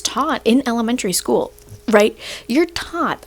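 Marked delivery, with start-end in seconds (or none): 2.5-3.2 said weirdly. Real, not acted. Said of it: "I said that really weirdly".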